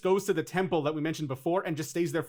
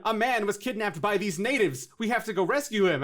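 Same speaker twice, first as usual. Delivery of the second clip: mock movie hero; 5 semitones higher than usual. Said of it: "and then they call them natives".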